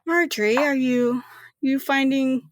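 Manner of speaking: lightly voiced cold superior; a hint of an icy matron; stern boss lady. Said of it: "You kinda hear her heels and goes".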